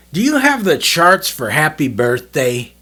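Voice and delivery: slow, earnest Bob asking seriously. Retold or imitated. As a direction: ask it like it truly matters. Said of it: "He goes".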